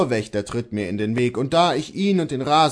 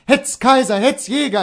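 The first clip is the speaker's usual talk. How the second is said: high, urgent attack call; ringing dog command; 11 semitones higher, 6 dB louder than usual. A narrator's reading. Bailiff sets his dogs on the servant, high shout. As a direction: set the hounds on him. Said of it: "erschallt es".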